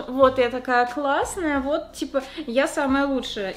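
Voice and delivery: slow, drawn-out show-off; mock self-satisfied drawl; smug boast. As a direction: savour it like the smug star pupil. Smug about being the best.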